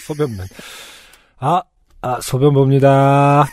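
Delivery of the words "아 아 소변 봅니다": put-on lightly slurred drunk reply; a hint of a drunk man, slow; blackout drunk. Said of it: "계속 이렇게 술 취한 사람 연기를".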